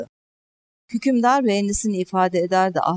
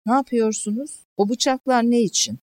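high-pitched, anxious questions; alarmed questioning; 7 semitones higher than usual. A narrator's reading. Wounded Cihan notices the preparations, asking in alarm. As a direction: narrator acting a patient's rising alarm. Wounded boy sees the knives.

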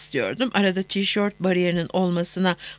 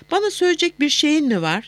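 higher-pitched, mildly stern question; suddenly stern; 6 semitones higher than usual. A narrator's reading. Lover asks whether she has something to say, suddenly stern. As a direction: demand an answer with a touch of hardness. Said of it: "Sesi birden sertleşmişti".

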